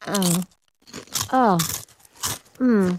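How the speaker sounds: soft moan over a crunchy bite; savoring moan. Real, not acted. Host tasting potato chips on air, savoring moans. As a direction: moan softly while tasting. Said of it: "quite a moan there".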